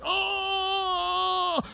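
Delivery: high, soft cry of pain. Retold or imitated. Injured pastor yelps on the tennis court, high and soft. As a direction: yelp as the tendon pops. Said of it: "I dropped the racket, like".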